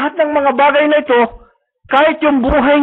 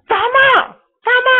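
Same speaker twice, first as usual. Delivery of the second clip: high, ringing cry of agreement; preacher's fervent outburst; excited exclamation; 10 semitones higher, slower than usual. Real, not acted. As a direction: shout it out as a triumphant yes.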